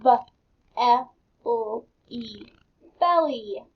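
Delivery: letter by letter, then belly blended; teacher sounding out letters. Shown as a demonstration. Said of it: "let's sound these words".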